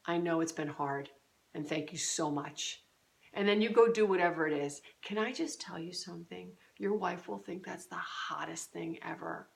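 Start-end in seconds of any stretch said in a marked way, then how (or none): 0.0-2.8 soft, low, gentle husband; quiet sincere thanks to a wife; tender reassurance. Shown as a demonstration. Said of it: "and say". 5.0-9.5 much softer, sharing a secret; hushed tip to husbands; confiding whisper-like aside. Real, not acted.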